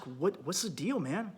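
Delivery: soft, caring question to a partner; a soft check-in with your wife; gentle asking. Shown as a demonstration. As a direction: ask it quietly, like you actually care. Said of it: "No, don't just".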